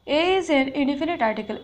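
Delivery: slow, deliberate reading of the rule; teacher reading a rule aloud slowly; slow dictation. Shown as a demonstration. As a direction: read it slowly for students to follow. Teacher reads rule sentence.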